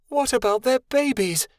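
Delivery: high, horrified question; aghast at the orphaned pups. Acted.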